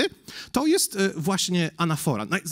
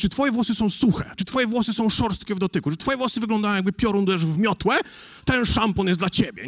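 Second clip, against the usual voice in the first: shampoo ad read; 3 semitones higher than usual. Retold or imitated. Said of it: "w reklamie szamponu jest".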